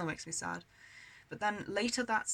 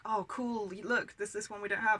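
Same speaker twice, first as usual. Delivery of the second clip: put-on mildly excited kid, higher pitch; retold eager discovery, a little raised; 3 semitones higher, 4 dB louder than usual. Kids showing mum a rare video, excited. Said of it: "we were really excited".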